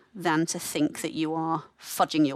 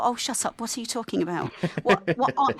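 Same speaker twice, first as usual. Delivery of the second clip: scoffing, higher and sharper; dismissive inner voice; 5 semitones higher than usual. Retold or imitated. To herself as a student nurse, impatient and scoffing. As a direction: brush it off with an eye-roll. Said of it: "And I just thought".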